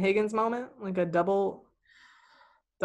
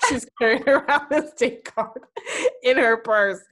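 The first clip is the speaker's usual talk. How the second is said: laughing while talking; 6 semitones higher, 6 dB louder than usual. Real, not acted. Laughing at date card.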